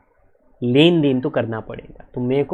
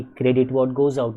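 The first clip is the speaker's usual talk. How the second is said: slow rule recital; 3 semitones lower, much slower than usual. Shown as a demonstration. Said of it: "Please understand".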